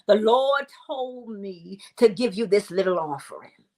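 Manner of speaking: lightly mimicked churchgoer's solemn testimony; pious Christian. Christian friend explaining a gift to you, mildly pious imitation. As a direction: gently put on a pious churchy delivery. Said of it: "you know how people Christians say it".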